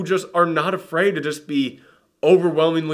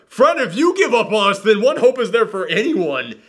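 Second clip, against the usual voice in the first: higher, pleading, urgent; desperation; 7 semitones higher than usual. Retold or imitated. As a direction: plead as if everything depends on him. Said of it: "desperation in her voice".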